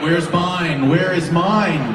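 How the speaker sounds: loud, slow mock complaint; hammed-up jealous whine; mock whiny demand. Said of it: "look at some of you going".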